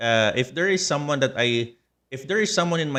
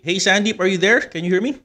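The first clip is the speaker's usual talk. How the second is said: calling out; 7 semitones higher, 5 dB louder, faster than usual. Real, not acted. Calling to guest on call.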